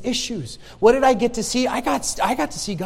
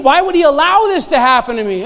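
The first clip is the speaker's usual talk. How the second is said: put-on old despairing question; 3 semitones higher, 7 dB louder than usual. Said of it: "when I was thinking".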